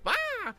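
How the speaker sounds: very high mock shriek; imitated scream. Sister screams as the T-Rex lunges, high mock shriek. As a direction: squeal like a scared rider. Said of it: "and my sister goes".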